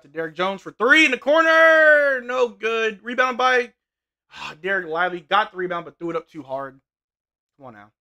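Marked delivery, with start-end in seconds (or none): none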